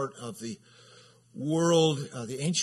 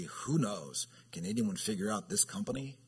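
sarcastic; 3 semitones lower than usual. Retold or imitated. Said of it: "So some sarcasm there".

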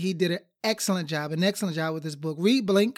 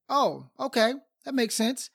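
higher-pitched "oh, I get it"; understanding tone; 5 semitones higher than usual. Shown as a demonstration. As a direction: sound like it just made sense. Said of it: "just by using that tone".

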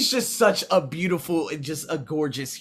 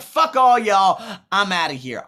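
mock angry shout; 5 semitones higher, 8 dB louder than usual. Quoting himself cutting people off.

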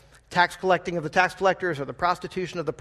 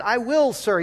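higher, eager, polite reply; polite obedient son; 5 semitones higher, 4 dB louder, slower than usual. Retold or imitated. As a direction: sound like the dutiful son. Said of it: "this is the polite, obedient son".

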